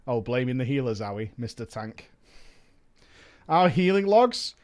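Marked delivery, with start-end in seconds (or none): 0.1-2.1 low, soft sarcastic jab; mock the tank quietly. Mocking retort voice.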